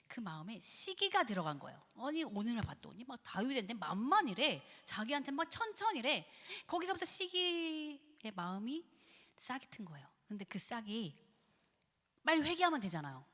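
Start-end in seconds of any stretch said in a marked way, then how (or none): none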